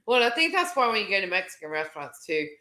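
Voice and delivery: talking through a burp; words around a small burp. Real, not acted. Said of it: "as I'm burping".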